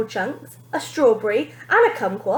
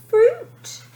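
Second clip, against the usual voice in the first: wincing mother; 13 semitones higher, 5 dB louder than usual. A narrator's reading. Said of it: "Mother winced as she said it".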